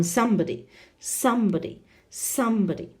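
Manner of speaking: somebody with SOME lifted; SOME-bo-dy, repeated for the class; teacher modelling somebody with first-syllable stress. Shown as a demonstration. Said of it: "First one".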